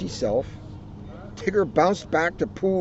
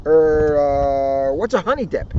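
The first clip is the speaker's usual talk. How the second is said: puzzled Tigger; 4 dB louder than usual. Acted.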